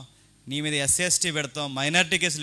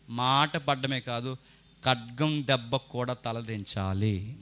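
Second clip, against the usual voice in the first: earnest; 3 semitones lower, 5 dB quieter, much slower than usual. Acted. Slow earnest sermon point.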